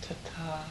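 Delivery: Tata with a long, stressed A. Shown as a demonstration. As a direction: stretch the A in Tata. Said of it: "It means that A is longer, more stressed".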